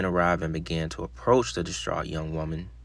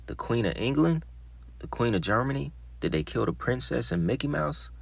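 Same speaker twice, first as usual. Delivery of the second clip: higher-pitched questions, read with mild incredulity; retold mocked questioning; 5 semitones higher, 3 dB quieter than usual. Distraught woman being mocked by police, mild incredulous questioning. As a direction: ask each as an absurd question, pitched up. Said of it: "like, being mocked".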